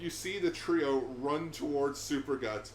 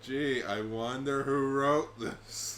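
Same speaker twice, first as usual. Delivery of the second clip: sarcastic; much slower than usual. Real, not acted. Sarcastic aside.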